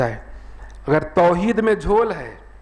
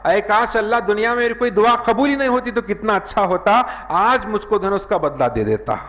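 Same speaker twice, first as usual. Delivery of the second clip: mock cry of regret, pitched up; 5 semitones higher than usual. Man on Judgment Day wishing his prayers went unanswered, crying out. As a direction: call it out as a wishful plea, only moderately raised. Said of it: "چلا کر کہے گا".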